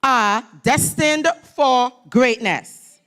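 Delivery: slow, weighty call to the crowd; slow emphatic call. Shown as a demonstration. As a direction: stretch out "destined for greatness". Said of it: "So all of us".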